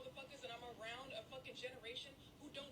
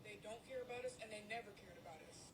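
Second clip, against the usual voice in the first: near tears; 2 semitones lower than usual. Real, not acted. Tearful rant about the community.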